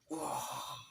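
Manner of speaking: long breathy roar, no real volume; drawn-out rasping mock roar; imitated giant's yell. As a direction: mimic a giant bellowing, mostly breath. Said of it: "Teriak dia".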